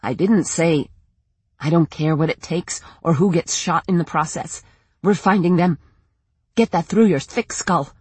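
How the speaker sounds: lightly voiced furious mother; angry. Linda furious at Hank.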